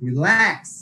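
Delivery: রিল্যাক্স with a punched second syllable, ল্যাক্স; light রি, then hit ল্যাক্স in রিল্যাক্স; second-syllable stress. Shown as a demonstration. Teacher showing students verb stress, second syllable of রিল্যাক্স punched. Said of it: "second সিলেবলে pressure দিব".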